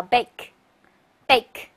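clear, slow teacher model of bake, bake; slow model reading. Shown as a demonstration. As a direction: say bake, bake slowly for students to repeat. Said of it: "一块儿读叫". (慢速示范朗读bake)

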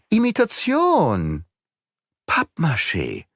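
exclaiming. Acted. Exclaims that statues are fake.

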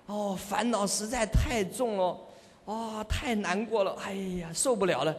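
slow, sighing mock complaint; mock lament. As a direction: moan half-seriously about worldly troubles. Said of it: "非常执着于这个娑婆世界". (模仿唉声叹气地诉苦)

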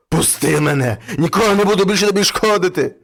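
loud frightened begging; pleading devil. Acted. Scared devil begging the man to let him go. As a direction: beg to be let go. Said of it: "почав просити чоловіка".

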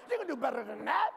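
loud twang, last word swung upward. Shown as a demonstration. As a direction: call it out with a bit of twang. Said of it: "say it with a little bit of twang to it".

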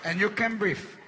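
the wife gloating at her ailing husband; mock sarcastic wife. Wife mocking her husband on the couch, slow and sarcastic. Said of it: "now she's like".

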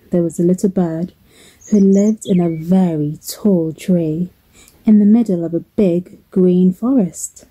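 gentle lilting storybook narration; measured storyteller with expressive emphasis; children's storytelling. Acted. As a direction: tell it to little ones, phrase by phrase.

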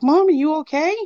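high, anxious acted question; retold worried call. Child rushing out the door to mom, worried call. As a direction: call out to check someone is all right.

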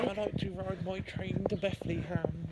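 slow put-on posh voice; posh accent. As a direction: drag it out like a posh gent. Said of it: "stop trying to make an accent".

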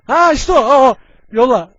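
loud, thrilled, found it; excited shout. Real, not acted. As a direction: yell with sudden excitement. Excited at finding unit.

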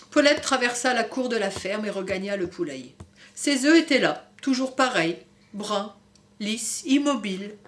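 put-on gentle storybook reading for kids; story narration. A narrator's reading. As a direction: read it like a bedtime book. Reading picture book to children. (lecture d'histoire pour enfants)

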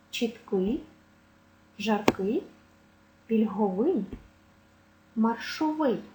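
every adjective from Фаховий to маршовий stressed on its ending; final-syllable stress. Shown as a demonstration. Teacher listing tricky adjectives, stress on last syllable. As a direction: list word by word, landing on each final -ий. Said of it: "має наголос на останньому складі".

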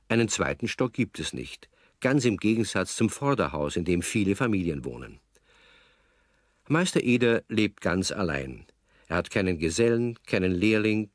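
normal talking voice

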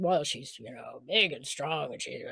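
lightly voiced big girl, pitched low; low, soft sketch of a tough character; big strong character. Quoting casting brief for gruff character.

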